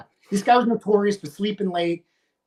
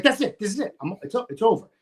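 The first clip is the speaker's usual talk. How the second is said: angry ultimatum; 2 semitones higher than usual. Retold or imitated. Acted quarrel, declaring it finished.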